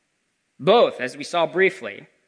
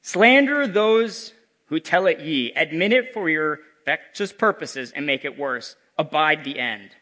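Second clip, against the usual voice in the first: echoing ethereal energy being; slower than usual. Acted. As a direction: command like a doom-laden ghost. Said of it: "cried the spirit".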